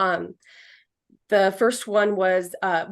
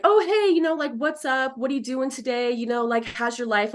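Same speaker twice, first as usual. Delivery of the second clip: higher, breezy mock small talk; mock casual chit-chat; 4 semitones higher than usual. Medium mocking a chatty spirit, breezy and higher. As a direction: toss it off like a chatty friend. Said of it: "and be like".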